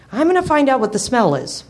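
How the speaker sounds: lightly voiced eager pup; declaring puppy voice. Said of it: "he declared".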